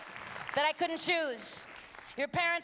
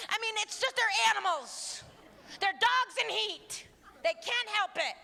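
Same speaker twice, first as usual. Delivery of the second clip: mocking; 7 semitones higher than usual. Continues mocking the media.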